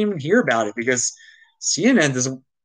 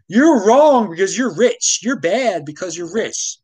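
mock accusation; 2 semitones higher than usual. Mimicking the middle class blaming the rich, mock scolding. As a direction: sneer it like a scold.

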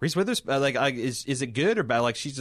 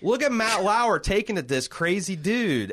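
high-pitched, excited retelling of amazement; amazed reaction; 10 semitones higher, 3 dB louder than usual. Retold or imitated. Host recalling his reaction to the interview, amazed. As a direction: relive your astonishment, pitched way up.

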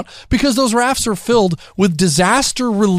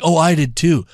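annoying activist; 5 semitones lower than usual. Retold or imitated. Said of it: "the annoying activist to, like, you know, the wannabe socialite".

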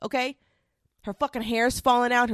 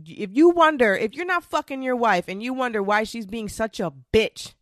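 ranting. Real, not acted. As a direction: lay into the husbands, full volume. Rant at husbands, loud.

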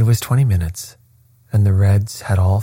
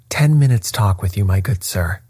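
sweetest voice. Acted. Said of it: "in the sweetest of voices".

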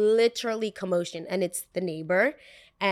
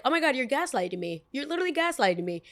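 exasperated friend; 7 semitones higher, faster than usual. Retold or imitated. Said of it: "this is when Pete was like".

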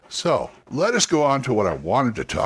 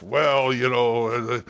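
stock fantasy dwarf voice; brief put-on dwarf voice; standard dwarf; slower than usual. Shown as a demonstration. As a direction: play a standard tabletop dwarf. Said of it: "Or the standard dwarf".

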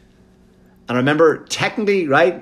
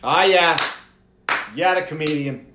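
lukewarm crowd; 5 semitones higher than usual. Retold or imitated. Crowd's lukewarm reaction voiced.

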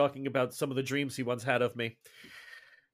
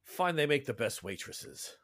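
sneering guard; 5 dB quieter than usual. Acted. Guard slights the Castilian sailor, slow and sneering. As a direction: drop the insult slowly.

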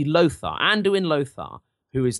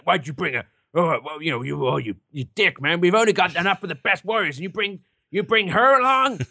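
mock angry orc; 4 semitones higher than usual. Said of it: "gets all, like, angry".

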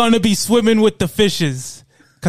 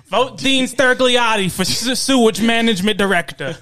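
campaign ad voice; 5 semitones higher than usual. Pretend. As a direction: announce it like a TV ad. Mock campaign slogan.

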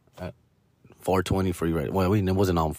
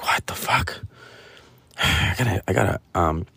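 whisper to himself; 4 dB quieter than usual. Retold or imitated. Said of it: "I was like".

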